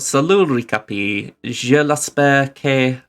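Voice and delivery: slow, careful French read with an English accent; reading a French note aloud in a hopeful French accent; attempted French accent. Shown as a demonstration. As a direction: sound it out in French, slowly. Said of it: "I'm sorry if I butcher the accent".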